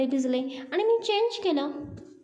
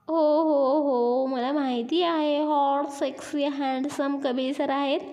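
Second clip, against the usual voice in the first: shy laughing interruption; 3 semitones higher, slower than usual. Acted. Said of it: "लाजत पण हसत लगेच मध्ये बोलते".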